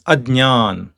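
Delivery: Adnyan with the cluster between g and d before ny; Adnyan, long final aan; correct pronunciation demo. Shown as a demonstration. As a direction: model Adnyan carefully. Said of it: "the right pronunciation is".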